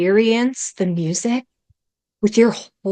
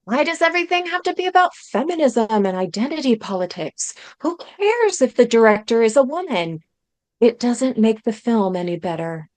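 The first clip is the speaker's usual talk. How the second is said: mock critic voice. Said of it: "And the critics say".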